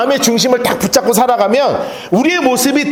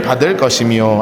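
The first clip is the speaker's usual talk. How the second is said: slow scripture reading; 6 semitones lower, slower than usual. Acted. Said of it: "다시 한번 우리 본 말씀 읽어보도록 할까요".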